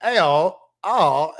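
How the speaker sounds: cartoon British greeting; mock British accent. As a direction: mimic British speech with a rising, hammed-up lilt. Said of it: "like, British".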